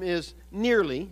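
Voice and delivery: nearly drawn out slowly and set apart; stress on nearly. Real, not acted. Preacher qualifying spiritual wisdom to listeners, stress on nearly. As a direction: lean deliberately on the word nearly. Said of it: "I emphasize the word nearly".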